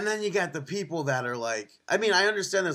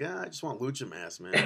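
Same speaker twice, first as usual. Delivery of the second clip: laughing; 2 semitones lower, 11 dB quieter than usual. Retold or imitated. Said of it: "I was like".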